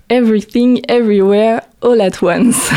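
put-on showy English accent on the film title, laughing; hammed-up English accent, half laughing. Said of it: "Avec mon super accent anglais".

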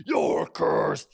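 loud, high proclamation; crying out. A narrator's reading. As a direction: cry it out forcefully. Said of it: "she cried".

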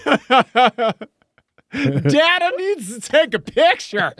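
Kyle Kinane voice. Acted. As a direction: push it up into a hammy comedian's voice. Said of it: "I go into Kyle Kinane voice".

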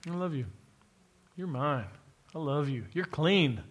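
a hint of a gentle, loving Lord; tender voice of the Lord. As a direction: speak love over them gently. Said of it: "the Lord says".

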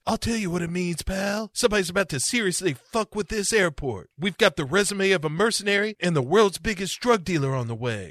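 lightly voiced tough-guy cop, fast; a hint of a tough cop leaning in; Bruce Willis. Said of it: "And Bruce Willis says".

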